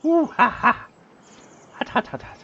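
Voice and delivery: high squeals, sucking air past scalding coffee; gasping through a mouthful of hot coffee. Real, not acted. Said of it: "that coffee is go-, so good, but so hot".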